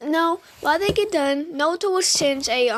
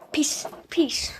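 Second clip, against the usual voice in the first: whispered. Real, not acted. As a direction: whisper it as a playful goodbye. Quick sign-off aside.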